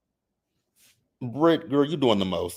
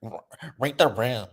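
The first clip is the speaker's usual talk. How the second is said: repeated, louder each time, ending slow and heavy; read the room, building; 3 semitones higher, 3 dB louder than usual. Real, not acted. Vlogger scolding a housewife, building to a slow yell. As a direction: hammer it home, building louder.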